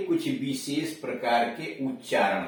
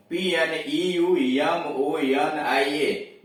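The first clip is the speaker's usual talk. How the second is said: letter by letter, slow; dictating a spelling slowly; spelled out slowly; much slower than usual. Shown as a demonstration. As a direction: spell पीएनईयू एमओएनआईए out slowly, one letter at a time. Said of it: "आगे देखिए पीएनई".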